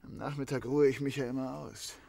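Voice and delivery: ordinary talk, nothing marked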